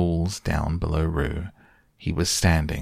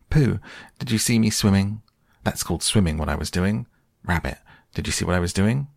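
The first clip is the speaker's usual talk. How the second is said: excited Roo voice; 3 semitones higher, faster than usual. Acted. Roo boasting to everyone.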